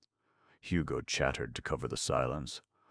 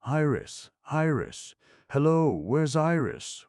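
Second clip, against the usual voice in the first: high, loud frantic calls; anxious calling across water; 13 semitones higher, 8 dB louder than usual. Acted. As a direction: shout the name into the dark.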